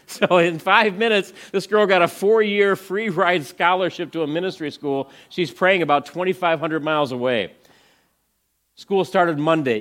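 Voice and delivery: high, loud and amazed, half laughing; thrilled retelling. Real, not acted. Speaker recounting the miracle scholarship, thrilled and loud. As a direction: tell it like you still can't believe it.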